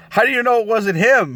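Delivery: high mock disbelief; incredulous question. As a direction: ask like it's obviously not him. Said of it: "where the guy says".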